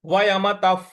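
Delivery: वयमतः with a final f; visarga said as f. Shown as a demonstration. Teacher models वयमतः with the visarga as f before प. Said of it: "उसका उच्चारण हमें फ ले आना है".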